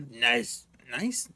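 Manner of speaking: testing a low gravelly Nice; trying gravelly voice. Shown as a demonstration. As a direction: feel out the rasp.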